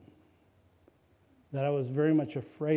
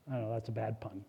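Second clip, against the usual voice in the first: normal talking voice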